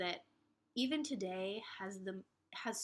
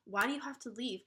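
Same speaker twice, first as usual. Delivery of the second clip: whiny complaint; 3 semitones higher, 4 dB louder than usual. Retold or imitated. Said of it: "because I'm like".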